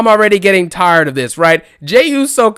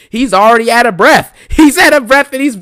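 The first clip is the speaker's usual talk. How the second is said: laughing; 5 semitones higher, 5 dB louder than usual. Real, not acted. Cracking up describing promo.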